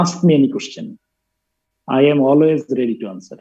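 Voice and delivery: slowly, word by word; slow dictation. Shown as a demonstration. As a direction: dictate it for students to write down. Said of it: "লেখা রাখো, লিখছো".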